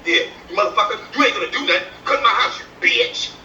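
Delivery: hammed-up feminine taunt; mock girly taunt. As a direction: tease him with a high sassy voice. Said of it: "He be talking to another man".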